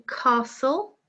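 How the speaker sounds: castle, T left out, rising tune; castle with silent T. Shown as a demonstration. Teacher goes through the ten words, castle with silent T. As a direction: model castle without any T sound. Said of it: "silent T".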